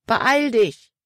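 high-pitched command to hurry; urgent call. A narrator's reading. Emma urges Libby to hurry, high urgent call. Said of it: "rief Emma zurück".

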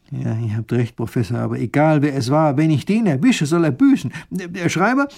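growing vengeful; angry vow. Acted.

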